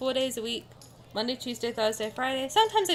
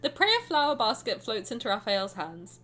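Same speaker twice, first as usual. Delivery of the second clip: story narration. A narrator's reading. Reads game narration aloud.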